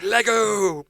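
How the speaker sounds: put-on high, loud squeal of a delighted kid; excited child. Imitating a child who has just spotted Lego, loud and high. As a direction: shout it like a child tearing open Lego.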